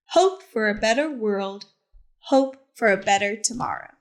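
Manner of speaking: gentle, expressive picture-book narration; reading to children. A narrator's reading. Teacher reads Harvey Milk's story to the class, storytelling voice. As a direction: tell it like story time on the rug.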